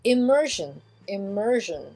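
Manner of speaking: immersion English style, "ih-MER-zhun"; zh sound in immersion. Shown as a demonstration. Teacher showing the English word, immersion ending in zh. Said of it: "j, comme".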